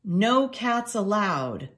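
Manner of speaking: slow, deliberate sign reading; reading aloud. Acted. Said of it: "Nicholas read aloud".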